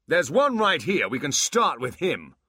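loud, high furious demon. Acted. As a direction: roar for the attack. Abbott picks a target.

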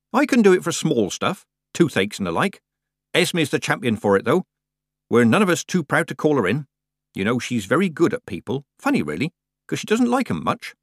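lightly voiced old countrywoman; a hint of a chatty old witch; chatty Nanny. Nanny explains Esme's gift to Tiffany, chatty.

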